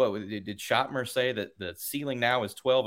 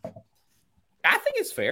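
very high, very slow, drawn-out voice. Giving an opinion on the ranking, voice going really high. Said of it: "My voice got really high there".

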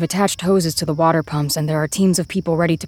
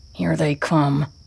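growl delivered in a whisper; 2 semitones lower than usual. Reading a story as a line is spoken before a coming attack: growl in a whisper. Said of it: "someone says in a growl, in a whisper".

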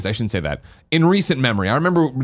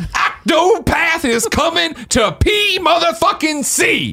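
very high, very slow, loud cheerful drawn-out shout. Reading out a viewer's message that asks for it: put-on loud, cheerful voice. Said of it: "Loud, cheerful Greg voice, please".

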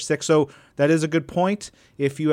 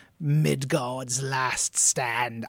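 soft, theatrical, put-on Shakespearean accent; 2 semitones lower, 5 dB quieter than usual. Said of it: "I went with that accent for it".

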